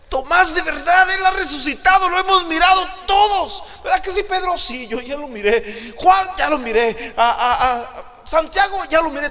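the disciples urging Thomas, laughing a little; eager disciples. Acted. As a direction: disciples excitedly telling Thomas they saw Jesus. Disciples tell Thomas they saw.

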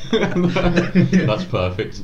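slow, laughing praise. Real, not acted. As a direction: stretch it out laughing.

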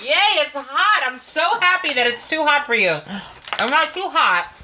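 high gloating glee; gleeful teasing. Real, not acted. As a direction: gloat happily at his pain. Teasing friend over hot sauce.

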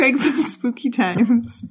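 "Craigslist Spooky Times" slow and eerie. Shown as a demonstration. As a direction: draw it out like a ghost story. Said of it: "you have to say it, like, spooky".

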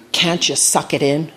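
slow, every word of "Can't you suck it in?" fully enunciated; perfect enunciation. A narrator's reading. Grandfather to John about his belly, "Can't you suck it in?" slowly and perfectly enunciated. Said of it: "enunciates perfectly".

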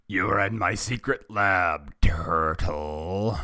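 drawn-out villain voice; menacing, stretching the last word; evil villain. A narrator's reading. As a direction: gloat like a cartoon evil mastermind. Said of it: "the voice of evil".

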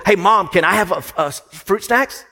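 lightly voiced small child asking mom, rising hopefully at the end; little munchkin. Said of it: "the little munchkin said".

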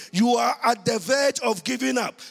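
loud and high; shouted preaching. Acted. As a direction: shout it to the whole church. Same line shouted in preaching.

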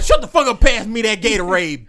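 mock water boy yell. Imagined water boy yelling at an old rookie, loud mock yell. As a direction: bark it like a fed-up water boy. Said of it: "the water boy gonna be like".

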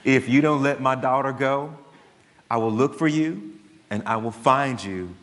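imitating a cold calm father threatening the kidnapper; lightly voiced Taken speech; Liam Neeson threat. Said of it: "And he says".

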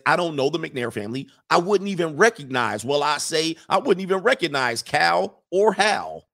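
lightly hammed Southern cartoon rooster; rising mock indignation in a Southern rooster voice; Foghorn Leghorn. Attorney denies knowing the neighbors, as a light Foghorn Leghorn. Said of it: "read this in my Foghorn Leghorn accident".

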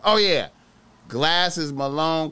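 ordinary talk, nothing marked

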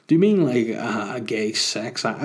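DUP politician. Real, not acted. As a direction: ask it like a DUP politician, slowing on the last words. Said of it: "Why do I sound like I'm the D U P?".

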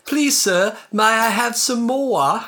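high, slow, hammed-up British plea; British accent. Shown as a demonstration. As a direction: beg like a stage British orphan, drawn out. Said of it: "do a British accent".

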